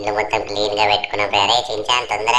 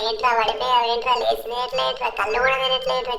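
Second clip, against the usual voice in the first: higher, anxious pleading voice; panicked Franklin. Acted. Franklin begs unconscious Chinchan to wake up, panicking. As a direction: urge a fallen friend to wake, frightened.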